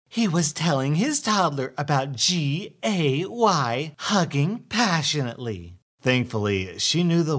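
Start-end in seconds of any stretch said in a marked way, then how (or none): 0.1-5.8 high, spelling it out primly; scandalized entitled mother. Acted.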